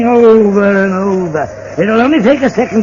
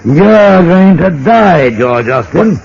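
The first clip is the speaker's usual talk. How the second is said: menacing; 5 semitones lower than usual. Acted. Villain reveals murder plan.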